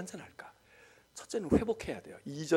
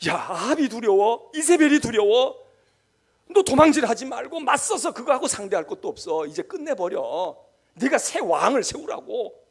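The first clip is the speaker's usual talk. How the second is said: God commanding; 3 semitones higher, 9 dB louder than usual. Acted. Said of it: "하나님께서 말해요".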